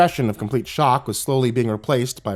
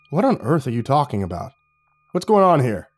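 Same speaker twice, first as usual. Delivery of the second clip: sputtering. Acted. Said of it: "He sputtered".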